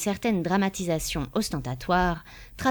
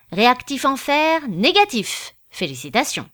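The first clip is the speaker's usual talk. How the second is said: a hint of a pompous judge, higher and louder; lightly voiced judge; 5 semitones higher, 5 dB louder than usual. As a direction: announce the result like a fussy official. Judge announcing test result.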